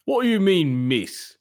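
put-on British shop owner; British shopkeeper, mildly affronted; British accent. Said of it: "We're gonna try our British accents".

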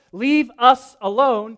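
slow, loud, high mock whine; sarcastic whining plea. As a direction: drag it out mockingly.

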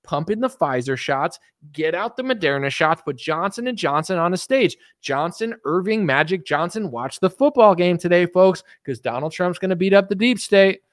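high excited mock believer; hammed-up QAnon fan; mock conspiracy fan. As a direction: gush like a conspiracy nut. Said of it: "QAnon people are like".

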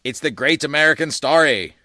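radio announcer. Acted. Announcer voice continued.

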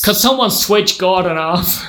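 fed-up American father, drawn out; American accent. Acted. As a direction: dismiss him in an American accent. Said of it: "gonna have to do an accent".

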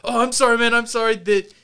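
lightly voiced nervous old man; apologetic old man. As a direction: hurry to smooth things over. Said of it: "He's like".

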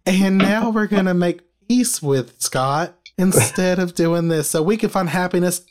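mock sermon, lightly done; Joel Osteen. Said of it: "That was my Joel Osteen for you".

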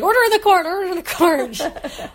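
a hint of a stern judge calling order; mock judge. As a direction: play a pompous judge banging the gavel. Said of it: "wearing a judge's robes and a powdered wig and holding a gavel".

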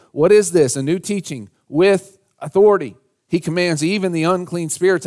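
preacher acting out amazed onlookers; retold amazement. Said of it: "They were all amazed".

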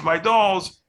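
put-on little girl crying for her dolls; cries out. A narrator's reading. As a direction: wail it like a toddler robbed of her dolls. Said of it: "And Grace cries".

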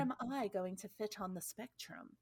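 lightly put-on theater voice; a touch of stage delivery on each question. Shown as a demonstration. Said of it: "this is my theater voice, obviously".

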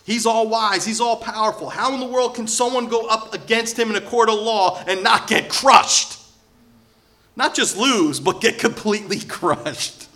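high, loud preaching outburst; impassioned incredulity. Acted. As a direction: build to a shout on crushed, then ease slightly. Acting out Job's desperate question.

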